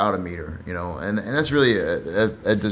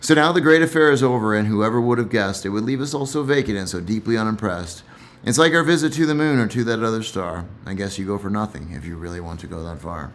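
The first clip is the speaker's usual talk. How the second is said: poem reading. Acted. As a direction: savour the final lines once more. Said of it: "So I'll read that again".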